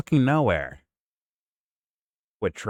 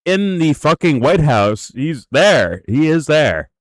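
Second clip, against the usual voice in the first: loud, raised, emphatic rebuttal; exasperated insistence; 4 semitones higher, 6 dB louder, slower than usual. Real, not acted. Host argues Vance already holds power, loud exasperated insistence. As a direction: hammer each phrase home in exasperation.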